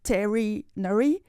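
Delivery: veterinary broken as vet-TERRY-nary, rising; uncertain emphasis. Shown as a demonstration. Learner asking where emphasis goes, veterinary tested aloud. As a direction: try veterinary piece by piece, as a question. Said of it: "Where do you put the emphasis".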